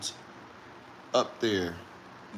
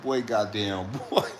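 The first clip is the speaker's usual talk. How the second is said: laughing exclamation; 4 semitones lower, slower than usual. Retold or imitated.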